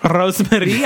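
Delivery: Rosemary with a trilled R; rolled r. Shown as a demonstration. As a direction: roll the R in Rosemary. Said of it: "start trilling my R's inexplicably".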